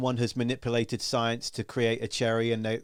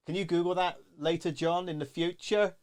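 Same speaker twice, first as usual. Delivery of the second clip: pretend request to self; 6 semitones higher than usual. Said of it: "I'll write a note to myself".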